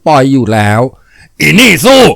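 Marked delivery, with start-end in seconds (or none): 1.1-2.0 high, drawn-out angry shout; enraged bellow at his daughter; furious father's yell. A narrator's reading. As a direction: yell it as if to reach the depths of hell. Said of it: "พ่อร้องเหมือนจะตะโกนให้ได้ยินถึงนรกชั้นต่ำสุด".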